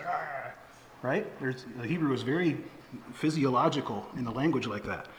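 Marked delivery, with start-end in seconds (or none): 0.0-0.5 imitated toddler straining noise. Preacher mimics a toddler being corrected, soft straining noise. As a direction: softly mimic a stiff-necked toddler's "ah". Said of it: "they actually do this".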